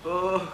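long, weary groan of pain. Acted. Man nursing himself after a thrashing, groaning. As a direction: groan after taking a beating.

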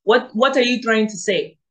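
a light attempt at an African accent; playful African accent, first go. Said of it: "let me see if I can do my African accent".

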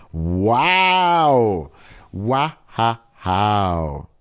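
loud, pleased exclamation; delighted wow. Real, not acted. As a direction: react with real delighted surprise. Reacting to praise of dialect.

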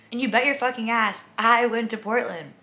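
loud and high, triumphant. Real, not acted. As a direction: crow it out proudly. Triumphant punchline.

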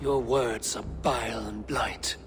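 contemptuous whisper. Acted. Hero spits contempt quietly.

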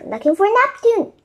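high, projected reply; shouted answer. A narrator's reading. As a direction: call the answer back. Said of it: "shouted Annie".

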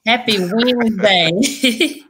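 slow, sing-song happy Wednesday; drawn-out greeting. Acted. Host greeting her guest in a drawn-out sing-song. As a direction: stretch it out like a show host.

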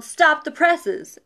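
slow, stretched newsroom yell; mock editor's yell. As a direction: retell the old movie line with gusto. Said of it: "the editor yelled".

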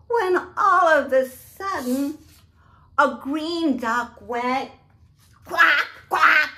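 put-on reading aloud to children, building suspense; storybook build-up. A narrator's reading. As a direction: build up and burst with the quack.

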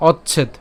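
"অচ্ছেদ" as och plus chhed; careful "অচ্ছেদ" with doubled ch-chh; pronunciation demo. Shown as a demonstration. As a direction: teach "অচ্ছেদ", ending on a closed d. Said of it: "তাহলে উচ্চারণটা কেমন".

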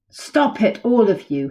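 high honk telling birds to stop; a light honk of a scolding heron; lightly voiced heron honk. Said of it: "Heron honked".

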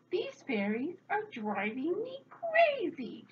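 high, slow, drawn-out wail of exasperation; exasperated yell. A narrator's reading. Old woman surrounded by rackety fairies, exasperated high yell. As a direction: wail it at the end of your tether. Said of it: "she yelled".

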